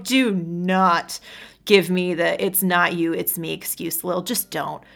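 loud, sharp refusal; bitter. Acted. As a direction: cut her off bitterly. Bitter angry man.

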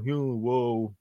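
dazed stoner "oh whoa"; spaced-out stoner voice; stoner impression. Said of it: "my stoner impression".

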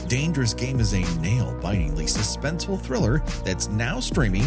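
upbeat commercial voiceover; ad read. Acted. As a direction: read it like a radio spot. Sponsor ad read.

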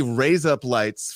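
"Raise up lights" slow and separated; Australian trick phrase. Shown as a demonstration. Guest repeating the trick, "Raise up lights" said slowly. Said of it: "for an Australian".

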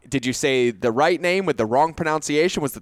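mildly hammed-up confusion, starting high; flustered questioning. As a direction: fire off puzzled questions, retelling the muddle. Retells confusion over two names.

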